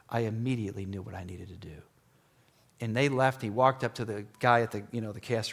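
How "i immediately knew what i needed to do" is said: whispered, low and soft; hushed inner realization; whispered resolve. Retold or imitated. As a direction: let it slip out as a hushed whisper.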